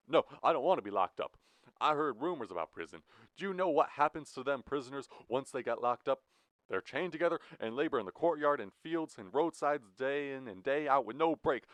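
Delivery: high, fast frightened begging; fearful pleading. Acted. Jack begging Blue not to lock him up. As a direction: beg not to be locked up.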